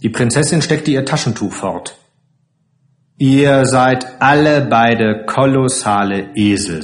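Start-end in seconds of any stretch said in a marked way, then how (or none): 3.2-6.8 firm, emphatic reproach; energetic scolding. Acted. Princess tells off both men, energetic and firm. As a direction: tell them off briskly and firmly. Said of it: "sagte sie energisch".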